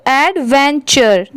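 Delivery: "एडवेंचर" in clear parts, ad-ven-chur; blended syllables demo. Shown as a demonstration. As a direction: join the three parts of "एडवेंचर", each still distinct. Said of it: "तीनों को मिला देंगे तो".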